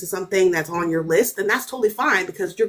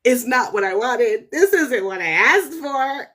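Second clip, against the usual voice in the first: mock tearful protest; slower than usual. Herself in tears at the TV: slow mock-tearful whine. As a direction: whine it like a let-down viewer. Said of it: "I was sobbing".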